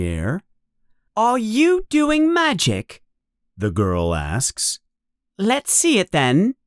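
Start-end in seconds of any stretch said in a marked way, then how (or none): 1.2-3.0 put-on high-pitched bossy girl's question; officious, high girl's voice. A narrator's reading. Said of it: "a very bossy voice". 5.4-6.5 high, bossy schoolgirl demand; officious girl, pitched up. A narrator's reading. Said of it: "a very bossy voice".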